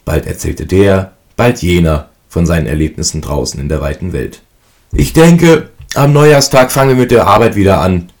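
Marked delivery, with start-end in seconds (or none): 4.9-8.1 higher, louder, stretched out mid-yawn; stretching with a yawn. A narrator's reading. Eldest brother by the stove, yawning, stretching. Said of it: "sagte der Älteste und reckte sich gähnend".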